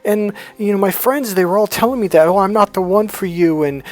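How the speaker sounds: imitating ex-girlfriend.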